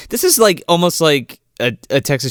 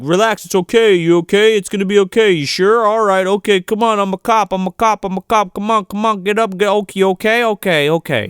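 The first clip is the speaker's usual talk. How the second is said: higher, hurried cop calming a hysterical woman; soothing cop; 6 semitones higher than usual. Retold or imitated. Cop calming the wailing girl, mock soothing. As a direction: talk her down fast, over and over. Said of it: "this guy's just like".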